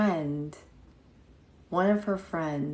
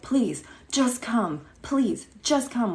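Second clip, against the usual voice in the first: hushed, pitched-up dramatic plea; mock whispered plea; dramatic pleading; 6 semitones higher, 3 dB louder than usual. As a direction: beg like a melodramatic kid. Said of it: "with her dramatic self".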